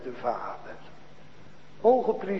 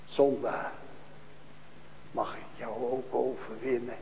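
reverent asking; 4 semitones lower, 7 dB quieter than usual. Acted. A hint of Christ gently asking the sinner, soft and reverent. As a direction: lower and softer, gentle question. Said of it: "vraagt hij heel eerbiedig".

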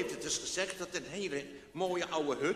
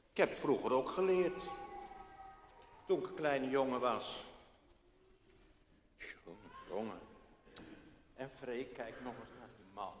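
plain reading voice

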